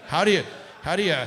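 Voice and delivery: shouted fast in mock panic; panicked shout. Flustered pilot shouting at the manual.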